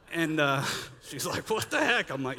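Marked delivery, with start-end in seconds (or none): 1.5-2.1 high-pitched retold astonishment; high, incredulous imitation; mock disbelief. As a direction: imitate a baffled wife, pitched well up. Wife reacts in disbelief, retold.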